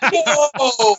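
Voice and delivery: very high, changed voice, dazzled realization; awed student voice. Retold or imitated. Student realizing he should have played dead, in a very high awed voice. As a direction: play the kid who just got blown away.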